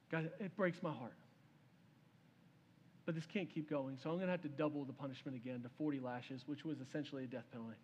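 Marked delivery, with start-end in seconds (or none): 0.1-6.4 low, soft and sorrowful; grieving ruler, voice dropped low; heartbroken king. Acted. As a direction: pronounce the sentence with quiet regret. Heartbroken king pronounces harsher punishment.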